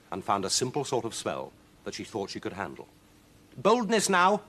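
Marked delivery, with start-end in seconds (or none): 3.6-4.4 high, loud witch egging herself on; self-encouraging witch. Acted. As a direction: pump yourself up, witch. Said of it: "egging herself on".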